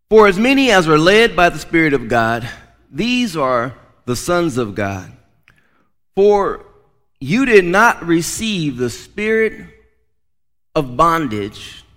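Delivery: measured, emphatic Bible reading with pauses; scripture reading. Acted. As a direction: read the verse out to the congregation. Reads scripture aloud to congregation.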